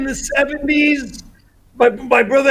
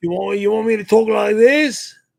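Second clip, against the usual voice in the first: put-on mock English accent impression; 4 semitones lower than usual. Asked to do an English accent for a stream, trying out an English accent impression. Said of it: "Can you do that great English accent".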